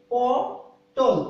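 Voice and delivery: পটল drawn out very slowly so the final ল rings; pronunciation demo. Shown as a demonstration. Teacher slowly sounding out পটল for students, drawn out. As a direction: stretch পটল slowly for the class. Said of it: "দেখেন আমি যখন উচ্চারণ করছি".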